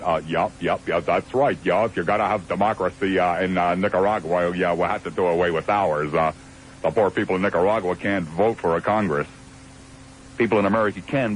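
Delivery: lightly voiced dim yes-man; mock conservative jerks. Host mimics conservatives who sat around going yup, lightly mocking impression. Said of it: "awful lot of jerks who like to refer to themselves as conservatives".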